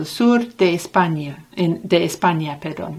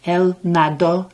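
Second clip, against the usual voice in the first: "nadó" stressed on its last syllable, na-DÓ. Shown as a demonstration. Teacher recapping the difference for learners, stress on DÓ in "nadó". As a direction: hit the final DÓ in "nadó". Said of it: "the stress of the word is on the last syllable".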